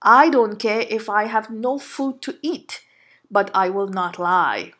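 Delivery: quiet, steady retelling of the husband; understated calm resolve; calm and firm. Retold or imitated. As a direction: say it softly but immovably. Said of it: "looked at me calmly and said".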